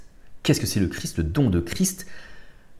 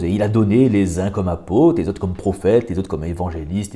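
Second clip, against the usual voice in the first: steady, measured reading of a Bible verse; scripture reading. Acted. Reading the verse aloud to his listeners, measured. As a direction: read the passage out to the group.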